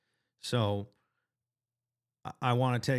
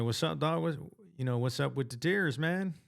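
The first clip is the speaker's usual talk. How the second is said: higher, light mock-surprised concern; gentle teasing concern; 5 semitones higher than usual. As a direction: friend tears up on the call, so light teasing concern. Asking crying friend what's wrong.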